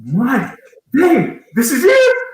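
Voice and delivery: high thick Jamaican uncle voice; Jamaican accent. Retold or imitated. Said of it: "in a very thick Jamaican accent".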